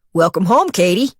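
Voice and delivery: put-on a light New York doorman accent, friendly; nasal New York accent. Jolly doorman welcoming Kate home, light New York accent. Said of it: "in a nasal New York accent".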